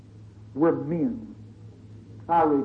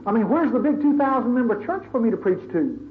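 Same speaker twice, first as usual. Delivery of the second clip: Paul complaining to God; 5 semitones higher than usual. Retold or imitated. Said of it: "picture old Paul in jail".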